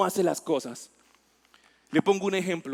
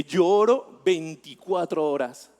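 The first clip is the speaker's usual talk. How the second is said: deadpan bold claim; 3 dB louder, slower than usual. Retold or imitated. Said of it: "¿y usted cuánto ora colombiano?".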